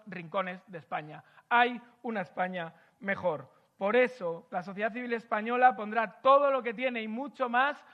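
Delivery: measured, emphatic speech to a crowd; rally the room with solemn rhetoric; formal speech. Acted. Speaker addressing civil society audience, formal oratory.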